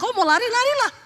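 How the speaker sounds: high-pitched retold shout back; retorting yell. Retold shouted exchange with husband. (balasan berteriak bernada tinggi)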